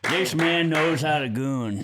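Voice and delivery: slow, dim henchman drawl; slowly, like a dumb grunt; goon voice. Acted. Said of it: "I'm gonna do it in the goon voice".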